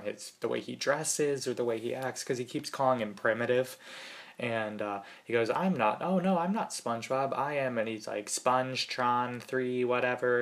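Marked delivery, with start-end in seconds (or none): 5.5-10.4 robot voice. Retold or imitated. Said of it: "in, like, a robot voice".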